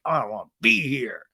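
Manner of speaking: imitating a fed-up child; mildly voiced sulky refusal; not having it. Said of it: "still just not having it".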